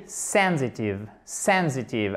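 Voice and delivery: "Sensitive" with SEN stressed; stress on first syllable. Shown as a demonstration. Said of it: "Accent tonique, même chose sur la première syllabe".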